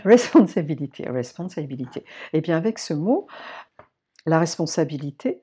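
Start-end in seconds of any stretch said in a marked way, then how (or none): 0.0-1.1 "Responsibility" said loud and higher in English, French accent. Shown as a demonstration. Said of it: "tu m'excuses mon accent". 1.1-2.0 "responsibility" repeated softer in accented English; English with French accent. Shown as a demonstration. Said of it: "tu m'excuses mon accent".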